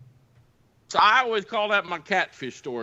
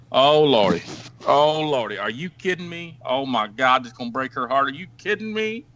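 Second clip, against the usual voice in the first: shaken oh lordy, half acted; retold shock, barely acted; mock distress; 3 semitones lower than usual. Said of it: "he goes from bad M F er".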